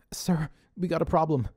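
nervous whisper to the boss; whispered plea. A narrator's reading. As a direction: breathe it out, scared to tell him. Pete pleading with Dave.

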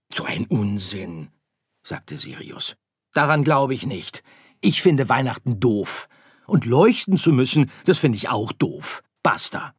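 hoch und laut, bockig abwehrend; trotziges Sternkind. Acted. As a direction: Sirius erklärt Weihnachten für doof. Sirius lehnt ab. (trotzig und bockig, höher und lauter)

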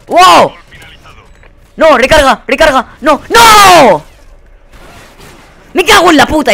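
loud, high shouts at the screen; real gaming yell. Real, not acted. Gamer screaming at teammates over a lost fight, loud and high. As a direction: yell in real frustration at the game. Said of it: "No es normal lo que estoy gritando".

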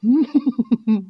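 short storyteller's chuckle. Acted. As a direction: give a brief, knowing chuckle. Storyteller chuckles over the tale.

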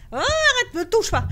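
sudden high loud cry of protest; startled yell. Real, not acted. Gamer jolted by a horror game character grabbing her, yelling. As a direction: yelp it out as something grabs you.

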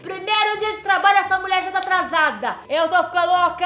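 loud, high frantic complaining; running late and losing it; panicked lateness. Acted. Late for her first day of work, loud panic.

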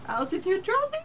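high loud robotic warning; mock alarm, loud and high. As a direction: announce it like the machine. Alarm voice again.

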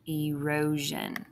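"erosion" drawn out slowly, ee-ROH-zhun; sounding out "erosion" for the class; slow clear erosion. Shown as a demonstration. Teacher modelling "erosion" slowly for kids. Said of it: "the last one there is ero".

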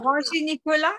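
"Ranger Nicolas" as ron-ZHEE nee-ko-LA; French pronunciation. Shown as a demonstration. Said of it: "How would you say Ranger Nick in French".

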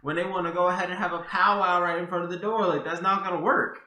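heated exasperated. Real, not acted. Heated argument continues, loud.

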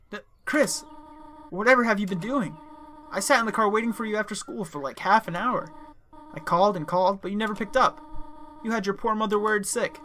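a hint of a worried, scolding mother; mother scolding her kid over the phone. Voicing Chris's mother on phone.

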